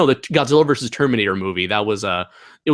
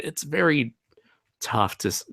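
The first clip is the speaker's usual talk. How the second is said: whisper; 6 dB quieter than usual. Real, not acted.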